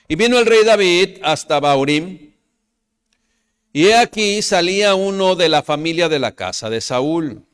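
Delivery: fervent sermon reading; preaching scripture reading. Acted. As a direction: proclaim the verses to the congregation. Preacher reads scripture aloud.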